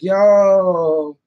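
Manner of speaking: long, loud, drawn-out exclamation; mock amazed call-out. His friends reacting to the hug, loud stretched call-out. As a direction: imitate a stunned friend calling out.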